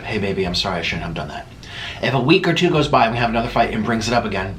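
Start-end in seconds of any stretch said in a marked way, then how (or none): 0.0-1.5 soft apology. Retold or imitated. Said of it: "I take ownership".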